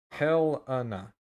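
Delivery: Helena drawn out slowly, syllable by syllable; deliberate pronunciation. Shown as a demonstration. Forecaster checking the town's name on air, deliberate pronunciation.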